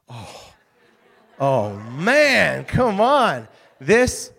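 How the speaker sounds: loud, emotional outburst; can barely contain the thrill; overcome with excitement. Real, not acted. Overwhelmed recalling Miracle on Ice.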